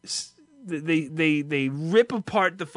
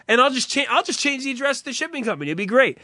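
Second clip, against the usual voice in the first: hopeful mock excitement; 8 semitones higher, faster than usual. Retelling own hopeful thought.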